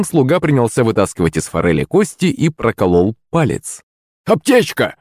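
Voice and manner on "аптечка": high-pitched call for help; pained cry. A narrator's reading. Servant to kitchen after pricking his finger, pained cry. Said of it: "закричал Захарыч, морщась от боли".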